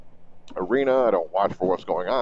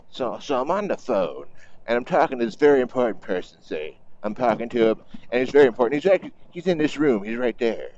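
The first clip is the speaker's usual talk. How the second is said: Trump impersonation. Retold or imitated. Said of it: "I got a terrible impersonation of it".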